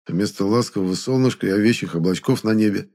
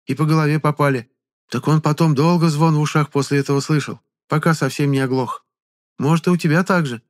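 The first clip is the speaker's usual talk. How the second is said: high, chatty village woman; a gossiping villager fussing over him; high village granny reassuring a stranger; old peasant woman; 8 semitones higher, 4 dB louder than usual. Acted.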